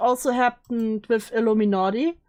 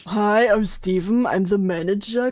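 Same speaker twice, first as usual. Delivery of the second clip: male voice; 2 semitones lower than usual. Pretend. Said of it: "Immediately slipping from the male voice".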